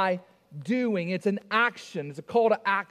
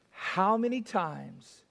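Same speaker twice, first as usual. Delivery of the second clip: slow, drawn-out weary parental plea; long-suffering, spaced-out words; exasperated parent; 3 dB quieter, much slower than usual. Acted. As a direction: stretch it out like a parent worn out from repeating. Acts a weary parent repeating himself.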